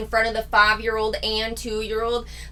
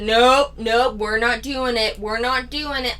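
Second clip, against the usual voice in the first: mock sarcastic refusal; 2 semitones higher than usual. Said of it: "for the child to say".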